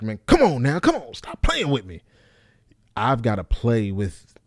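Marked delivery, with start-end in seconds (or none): 0.0-2.0 louder, higher exasperated Bernie Mac. Retold or imitated. Comic tries Bernie Mac delivery, louder and higher. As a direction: do Bernie Mac fed up and scolding. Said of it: "I can go like Bernie Mac".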